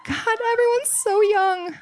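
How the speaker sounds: high, slow, mock-wistful sigh; high mock lament. Mock lament at young audience.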